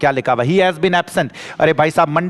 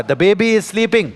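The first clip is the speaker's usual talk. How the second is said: slow, a bit higher; slow reading; 4 semitones higher, much slower than usual. Shown as a demonstration. Teacher reading the next exercise to the class, slow. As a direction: read each word out for the students. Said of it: "क्या लिखा हुआ".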